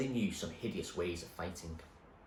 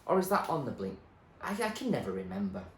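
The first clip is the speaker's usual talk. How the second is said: put-on muddled old man; 4 semitones higher than usual. The speaker muses.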